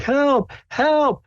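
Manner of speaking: very high, panicked calls for help; panicked shouting. Retold or imitated. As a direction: shriek it like a terrified bystander. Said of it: "someone's shouting".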